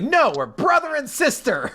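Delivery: high, eager insistence; lightly voiced schoolgirl; girl character voice. Voicing the girl's claim.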